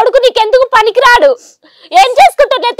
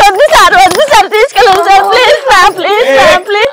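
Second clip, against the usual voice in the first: tearful pleading. Real, not acted. Daughter begging the crew to take her father away, tearful pleading. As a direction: plead desperately, voice cracking.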